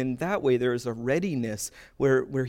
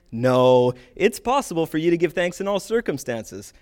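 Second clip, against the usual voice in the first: mock emphatic correction; 3 semitones higher, 5 dB louder than usual. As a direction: set the confused person straight, lightly hammed-up. Acted sketch-style correction of confused person.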